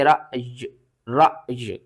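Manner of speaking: रअज with a sharp catch after र; jerked hamza stop. Shown as a demonstration. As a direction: cut रअज with a glottal jerk on the अ. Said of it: "अलिफ को झटके के साथ पढ़ते". (रअज को झटके के साथ)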